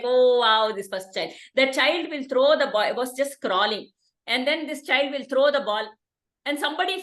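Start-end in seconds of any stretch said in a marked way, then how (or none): 0.0-1.3 delighted family. Retold or imitated. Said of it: "Everybody is like".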